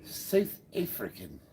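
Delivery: slow, careful try at South African; drawn-out imitation South African vowels; attempted South African accent. Shown as a demonstration. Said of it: "Does that sound right?".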